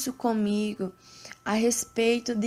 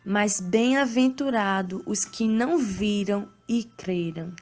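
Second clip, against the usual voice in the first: scripture reading. Acted. Reads Bible passage aloud.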